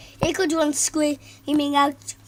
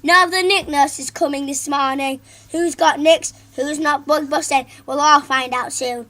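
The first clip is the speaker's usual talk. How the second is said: louder threatening announcement; stern teacher; 6 dB louder than usual. Acted. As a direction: warn the class sternly.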